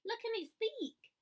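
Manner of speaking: high, eager call; little girl calling with excitement; excited girl. A narrator's reading. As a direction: point it out excitedly. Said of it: "calling and pointing excitedly".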